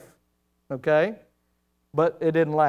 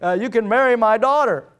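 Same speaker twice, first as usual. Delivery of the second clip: higher, louder, sly king's afterthought; king's offer; 4 semitones higher, 4 dB louder than usual. Retold or imitated. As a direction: toss it off as a sly bonus. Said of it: "He said".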